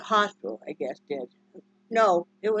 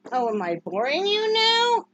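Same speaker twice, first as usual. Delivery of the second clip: mock offense; 9 semitones higher, 5 dB louder than usual. Real, not acted.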